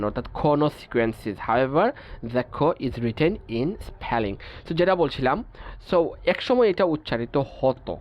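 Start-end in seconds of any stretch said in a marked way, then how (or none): 1.5-4.4 each English word read out slowly and evenly; measured, deliberate reading of a textbook rule. Acted. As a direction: dictate the rule slowly to the class.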